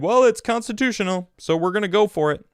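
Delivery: high, loud smug mock voice; mocking impeachment side. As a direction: parody them as cocky and oblivious. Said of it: "they said".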